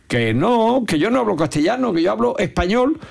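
high, insistent mock protest; indignant retort. Caller protesting to the phone operator, indignant and high.

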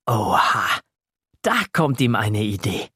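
plain reading voice

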